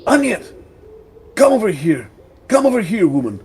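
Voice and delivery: high, loud call into the house; yelling back. Acted. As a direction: shout for your wife to come. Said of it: "and yells back".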